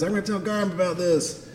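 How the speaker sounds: high little goblin voice; whining goblin. Acted. Goblin threatening to tell on his attacker, high whine. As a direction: tattle like a sulky goblin. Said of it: "then right as he says".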